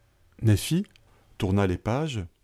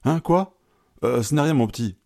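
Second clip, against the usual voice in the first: put-on very old man; 5 semitones higher, 4 dB louder than usual. A narrator's reading. Old man startled, answering boy.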